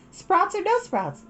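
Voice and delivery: a playful either-or to her sister; sing-song girl's question; Satsuki teasing. Acted.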